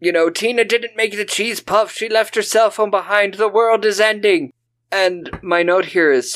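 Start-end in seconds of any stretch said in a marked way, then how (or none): 0.0-4.5 melodramatic whine; whiny Susan. Retold or imitated. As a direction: Susan whining about cheese puffs. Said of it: "she's like".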